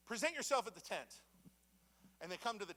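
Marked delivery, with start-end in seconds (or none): 0.1-1.2 put-on a touch louder, a mild stern parent calling the kids in; parent summoning. Parent calling children to the woodshed, mildly stern. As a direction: call them in like a parent who means it. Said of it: "like, a parent saying".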